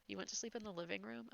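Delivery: teasing question, rising at the end on "you went to sleep in the living room?"; mocking repeat. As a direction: echo it back with a quizzical rise. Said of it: "I said it that way".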